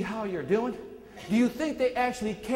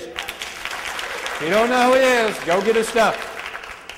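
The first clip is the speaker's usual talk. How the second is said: slow emphasis; 2 semitones higher, 6 dB louder, much slower than usual. Real, not acted. Urging audience to study Zig.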